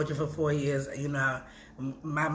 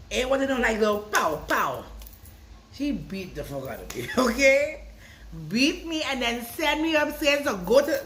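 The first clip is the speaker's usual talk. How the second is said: loud, higher comic indignation; animated comic outrage; 7 semitones higher, 4 dB louder than usual. Real, not acted. Grandchild comically retelling grandmother's whipping, loud and high. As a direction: play up the beating for laughs.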